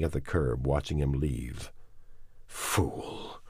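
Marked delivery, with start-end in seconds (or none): 2.4-3.4 inner grated insult. Acted. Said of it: "his mind grated".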